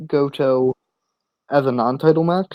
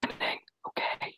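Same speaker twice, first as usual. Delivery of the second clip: whispered so he can't hear; whispering; 17 dB quieter than usual. Real, not acted. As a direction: secret hushed whisper. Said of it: "I have to whisper it so he doesn't hear me".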